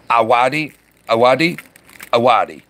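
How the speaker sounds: Awadi said with no d before the w; trying out pronunciation. Shown as a demonstration. Streamer asking a viewer about the name, trying out Awadi. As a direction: test "Awadi" as a question, then settle it. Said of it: "how am I saying it wrong?".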